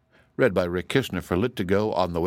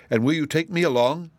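higher-pitched eager request; eager pleading; 7 semitones higher than usual. A narrator's reading. Boy wanderer begging to join the errand, eager. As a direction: plead hopefully to be included. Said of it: "pleaded Woot the Wanderer in an eager voice".

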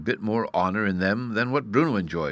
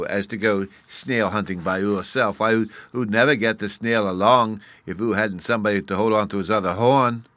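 louder, lightly voiced child; little fairy boy, scornful; 5 dB louder than usual. Bruno scolds the would-be snail hunter, scornful little fairy. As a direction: explain scornfully in a small boy's lisp.

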